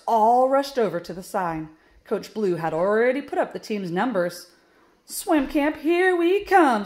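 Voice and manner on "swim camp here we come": high, loud call stretched at the end; triumphant yell. A narrator's reading. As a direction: celebrate with a drawn-out cheer. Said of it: "Stripes yelled".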